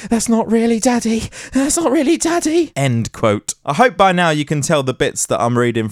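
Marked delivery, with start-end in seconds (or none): 0.1-2.7 put-on higher child voice rising, faster; scared kids. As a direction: kids cowering behind the sofa warning each other, high and faster. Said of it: "the kids are cowering behind the sofa going".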